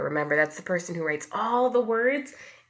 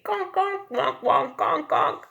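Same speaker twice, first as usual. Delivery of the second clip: high, bright conk conk; small ducks; 10 semitones higher, 5 dB louder, slower than usual. A narrator's reading. Teacher voices the small ducks quacking, high. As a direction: quack like a little duck. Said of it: "they say".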